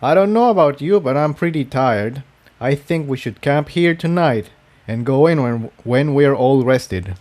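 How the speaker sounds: a hint of a weary young stallion; lightly voiced, tired suggestion; tired Jigsaw.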